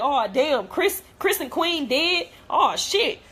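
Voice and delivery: mock shock. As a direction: imitate onlookers' casual shock. Imagined YouTubers reacting to a death.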